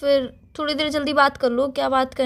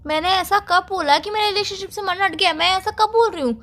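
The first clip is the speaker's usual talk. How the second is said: higher-pitched, defensive protest; indignant denial; 5 semitones higher than usual. Acted. Girlfriend denies losing interest in relationship, indignant. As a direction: deny it hotly, pitch raised.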